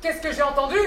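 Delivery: restrained indignation. Acted. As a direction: ask it with menace held back. Patron indigné, question répétée plus fort. (indignation contenue, menaçante)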